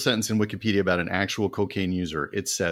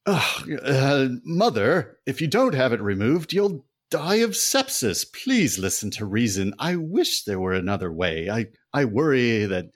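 earnest doctor son; 4 semitones higher than usual. Acted. Son tells his mother he must operate, high and hammy. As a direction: deliver the diagnosis with melodrama.

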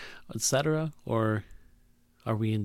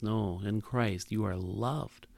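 slow, soft, lower voice; tender reminder; 3 semitones lower, 6 dB quieter, slower than usual. Pretend. God reminding the unworthy they are loved, softly. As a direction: say it like a gentle embrace. Voicing God's tender reply.

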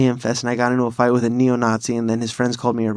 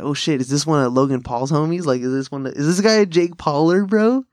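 imagined surprised listener. Acted. Listener guessing who this voice is, mock surprise. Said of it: "you hear this voice and you're like".

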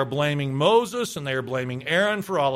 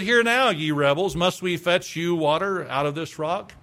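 gentle, unhurried reading of the rebuke; fairly kind tone. Shown as a demonstration. Preacher rereading Moses' words in a kind tone. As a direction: read it kindly, no edge at all. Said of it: "I just said".

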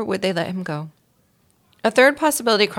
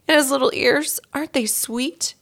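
higher, slowing doting coo; gushing; 8 semitones higher than usual. A narrator's reading. Mary Lou coos at the trapped mouse, higher and doting. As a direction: melt over the little ears. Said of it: "carrying on in such a gushy fashion".

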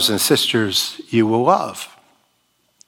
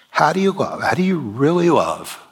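raised question; 6 semitones higher than usual. Real, not acted. Preacher presses the key question.

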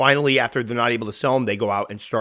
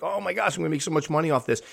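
higher-pitched, rushed mock excitement; gleeful would-be breeder; 5 semitones higher, faster than usual. Naive breeder counting future profits, mock excited. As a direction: imitate someone giddy over easy money.

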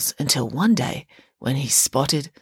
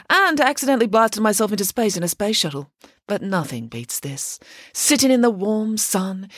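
bright, lightly raised grand nanny; lively pig nanny voice; 4 semitones higher than usual. Acted. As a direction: boast like a theatrical pig nanny. Nanny Piggins speaks.

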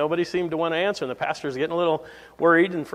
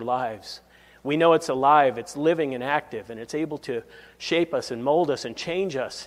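opening prayer; 3 semitones lower than usual. Acted. Pastor praying over the congregation, low and earnest.

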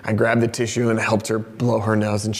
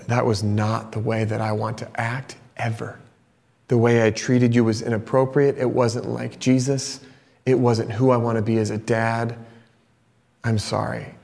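put-on low, subdued confession to a child; repentant apology; 3 semitones lower, 3 dB quieter than usual. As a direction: apologize gently and sincerely, with pauses. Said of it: "this posture of repentance".

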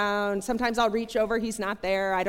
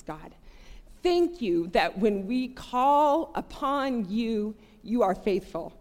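prayer aloud; 3 semitones higher than usual. Retold or imitated. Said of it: "I uttered out loud".

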